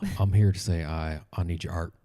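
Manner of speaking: put-on low drawling Southern accent. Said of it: "Why am I doing the Southern accent".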